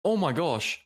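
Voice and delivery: talking with a mouthful; words round a bite of food; chewing while talking. Real, not acted. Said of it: "Sorry, I'm eating".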